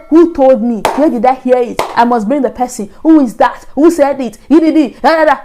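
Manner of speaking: rapid-fire demands, half-shouted; mock shouting. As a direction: act out her shouted questioning. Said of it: "She was shouting. She was wailing".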